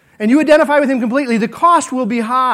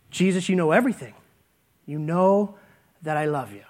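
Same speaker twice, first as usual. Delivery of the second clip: softer, lower, hurt Peter; humble quiet answer; 6 semitones lower, 8 dB quieter than usual. Retold or imitated. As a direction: answer Jesus barely above a murmur.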